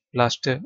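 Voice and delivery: British-style "प्लास्टर", final R dropped; "प्लास्टर" with a silent final R. Shown as a demonstration. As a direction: say "प्लास्टर" ending in an open vowel, no R sound. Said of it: "आर silent British accent में".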